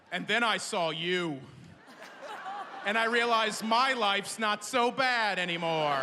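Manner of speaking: mock-sincere confiding, with long pauses; confiding stranger. Stranger tells comedian about a rough day, lightly acted confiding.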